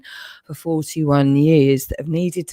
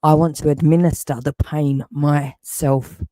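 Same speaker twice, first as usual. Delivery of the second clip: seething anger. Real, not acted. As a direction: threaten them, cold and furious. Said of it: "I'm fucking well angry".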